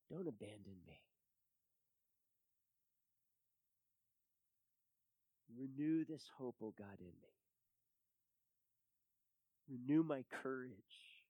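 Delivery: hushed prayer. Real, not acted. Preacher asking God to renew the discouraged, hushed prayer. Prayer subsides into quiet pleading.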